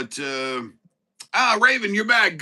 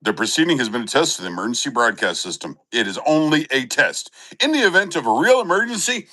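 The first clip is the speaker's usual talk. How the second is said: lower, fast, official test-message read; emergency broadcast voice; 4 semitones lower, 5 dB louder, faster than usual. Pretend. Streamer mimicking an emergency broadcast test, lower and fast. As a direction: rattle it off like a radio test.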